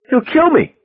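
very high, frantic outcry; wild cry. A narrator's reading. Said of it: "she cried wildly".

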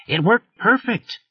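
high excited yell, slow; screamed. A narrator's reading. Wireman thrilled the trace worked, high yell. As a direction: shriek it with glee. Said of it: "Wes screamed".

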